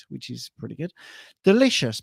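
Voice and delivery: ordinary delivery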